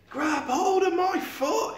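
slow, high, loud shout; crying out. Acted. Sid shouting to Eric from the cab. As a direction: shout each word out the window. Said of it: "he cried".

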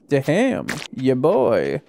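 silly, elongated hype reaction; oddly drawn-out exclamation. Real, not acted. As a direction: stretch the words out playfully. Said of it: "I don't know why I said it that way".

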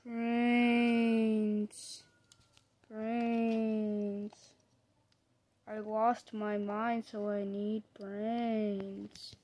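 slow moaning zombie voice. Pretend. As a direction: groan it out like a hungry zombie. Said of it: "now I'm acting like a zombie".

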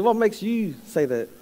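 slowed down, leaning on What; What asked slowly and firmly, pressing for a real answer. Retold or imitated. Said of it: "You didn't answer my question".

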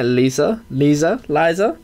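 Lisa with a long ee and z; trying Lisa then Liza as LYE-za; name pronunciation. Shown as a demonstration. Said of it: "Probably Liza".

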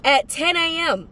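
high, slow, drawn-out shock; reenacted disbelief. Student retelling finding the exam was today, reenacted disbelief. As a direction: stretch out each phrase in high-pitched disbelief. Reliving discovering the missed exam.

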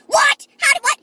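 high, loud startled what; retold shocked reaction. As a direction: blurt it in disbelief. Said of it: "I'm like".

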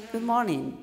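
good morning lifted high, then falling; high-pitched greeting. Shown as a demonstration. Coach corrects a low-toned opening, high-pitched. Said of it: "with this low tone".

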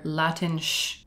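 Latinx as "la-TINSH"; alternative pronunciation of Latinx. Shown as a demonstration. Presenter offers a last odd variant, Latinx as "la-TINSH". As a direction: end Latinx on a "sh" sound. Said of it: "other pronunciations I came across were".

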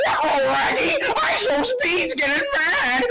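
lazy cartoon stoner voice; Shaggy from Scooby-Doo impression. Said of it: "Shaggy from Scooby-Doo".

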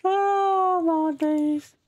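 high-pitched laughing exclamation; laughing hard. Real, not acted. Gamer laughing at the bolt bouncing off a face, high laughing. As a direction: crack up while you say it.

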